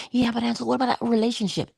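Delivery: doubting student. Acted. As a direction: rush the objection like a doubter.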